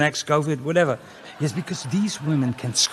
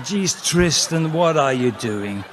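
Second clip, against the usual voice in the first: self-scolding; 4 dB louder, slower than usual. Retold or imitated. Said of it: "I thought to myself".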